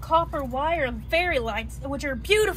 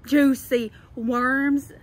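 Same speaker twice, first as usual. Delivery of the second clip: slow savoring; 5 dB louder, much slower than usual. Real, not acted. Savoring phrase.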